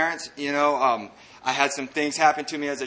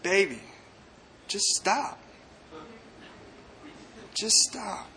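soft, higher voice with long pauses; loving mom; 4 semitones higher, 7 dB quieter, slower than usual. Retold or imitated. Mom looking down at her struggling son, tender imitated plea. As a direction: gently plead as an imitated mother. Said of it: "with all the love in her heart".

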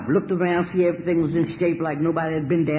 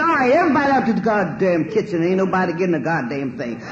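loud, raised voice clearing the kitchen; sudden stern command; bossy angry order; 3 semitones higher, 3 dB louder than usual. Retold or imitated. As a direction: order them all out, fed up. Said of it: "my whole thing had changed".

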